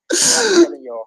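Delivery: strained real outcry; cracking high yell. Real, not acted. Upset fan crying out to everyone. Fan ranting after loss.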